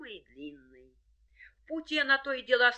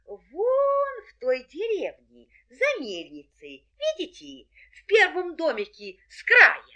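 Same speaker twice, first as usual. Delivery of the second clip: put-on a sweet little girl pointing the way; 6 semitones higher, 7 dB louder than usual. A narrator's reading. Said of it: "отвечает красная шапочка".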